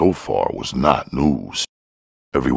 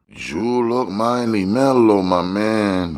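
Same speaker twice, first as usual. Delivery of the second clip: much higher, put-on hustler voice; George's voice; 10 semitones higher than usual. A narrator's reading. Narrator voicing the dealer to Curtis, high put-on hustler voice. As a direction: lift the voice high for the smooth fat dealer. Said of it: "George said after a while".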